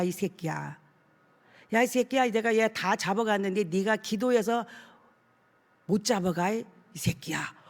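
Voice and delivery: lightly voiced demon taunting the pastor; possessed man's sneer. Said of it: "입을 확 이렇게 삐죽거리면서".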